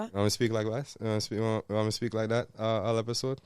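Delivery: easy, questioning Jamaican patois. Acted. Host asking fiancee about the episode, Jamaican patois. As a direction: put on a Jamaican patois, softly. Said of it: "the whole episode in patois".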